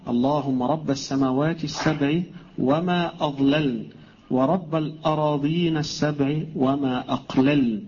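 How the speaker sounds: slow, drawn-out prayer recital; supplication recitation. Acted. Teacher reciting the village supplication for students, slow measured recitation. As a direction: recite each phrase deliberately, stretching the long vowels.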